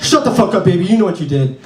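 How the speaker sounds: hint of a cop telling off a suspect; angry cop. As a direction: play a cop snapping at a newborn. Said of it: "a cop comes in".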